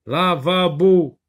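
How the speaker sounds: Lavabo drawn out slowly, each syllable la-va-bo clear; teacher sounding out Lavabo; slow teacher model word. Shown as a demonstration. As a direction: stretch Lavabo for little ears.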